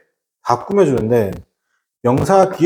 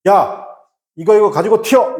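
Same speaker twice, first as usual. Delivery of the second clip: urgent warning call; 5 semitones higher than usual. Acted. Acts out Korean version of warning.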